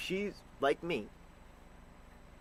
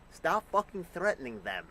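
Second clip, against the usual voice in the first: sudden loud, higher burst of anger; angry outburst; 6 semitones higher, 5 dB louder than usual. Real, not acted. Ranting vlogger shouting at the US government, loud and angry. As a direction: snap it out at Washington.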